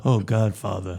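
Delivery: low, soft and nasal plea; nasal Johnny impression. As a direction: whine it through the nose. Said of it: "you gave it too nasally".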